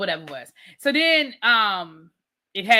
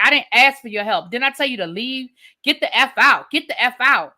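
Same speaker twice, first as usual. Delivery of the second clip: loud, fed-up get the F out; angry order; 5 dB louder than usual. Retold or imitated. Woman ordering the gigolo out of her house, loud and angry. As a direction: throw him out, louder each time.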